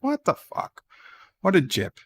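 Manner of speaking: high squeaky what-the-heck; mock outrage at a tiny tower; shocked disbelief. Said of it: "I was like".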